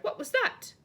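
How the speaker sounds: high, loud startled giant voice. A narrator's reading. Giant asks about the crash, high startled yelp. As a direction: yelp it in surprise.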